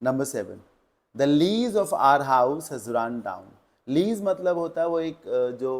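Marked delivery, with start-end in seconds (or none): 1.1-3.4 very slow, word by word; slow dictation. Shown as a demonstration. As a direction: read the question out to students. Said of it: "reading next question". (प्रश्न धीमे पढ़ना)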